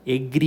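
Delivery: എഗ്രി starting with a clear 'ay/eh' vowel; habitual mispronunciation. Shown as a demonstration. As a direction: say എഗ്രി with the letter A as a full 'e'. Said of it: "first sound എ sound കൊടുക്കും". ('എഗ്രി', തുടക്കത്തിൽ തെളിഞ്ഞ 'എ')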